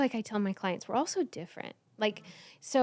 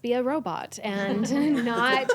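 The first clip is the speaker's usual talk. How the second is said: higher, drawn-out mock indignation; mock self-scolding; 5 semitones higher, 3 dB louder, slower than usual. Woman mocking how we judge ourselves, mock indignant. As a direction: scold yourself in exaggerated disbelief.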